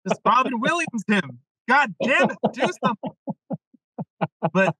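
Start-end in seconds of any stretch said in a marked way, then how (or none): 0.1-3.1 building higher, pleading to "do something"; urgent inner plea. Retold or imitated. Coach's inner voice begging him to comfort the client, rising urgency. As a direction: egg yourself on, rising toward the end.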